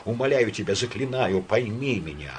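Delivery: shaky pleading, rising to despair; trembling plea that climbs at the end. Acted. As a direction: beg with a trembling voice. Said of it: "сказал он дрожащим голосом".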